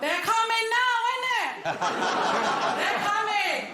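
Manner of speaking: lacht hoog en hard door de woorden heen; giggelend, flink hoger; laughing. Real, not acted. Laughing at own joke.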